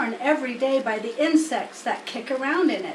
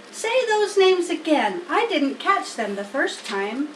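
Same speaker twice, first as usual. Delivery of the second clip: higher, eager pig voice; keen piglet begging to hear more; Wilbur the pig; 5 semitones higher, 3 dB louder than usual. Acted. Wilbur asking Charlotte, eager high pig.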